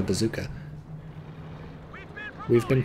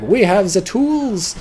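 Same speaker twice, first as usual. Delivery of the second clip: slow, higher mock accent, not an American accent yet; wrong accent attempt; 8 semitones higher, 5 dB louder, much slower than usual. Rear echelon troops boasting, said in a botched accent. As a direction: stretch it out in a misfired foreign accent. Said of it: "Wrong, wrong accent".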